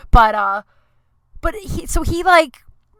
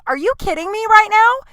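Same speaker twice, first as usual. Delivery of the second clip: retold angry retort; 12 semitones higher, 6 dB louder than usual. Retold clash with landlord.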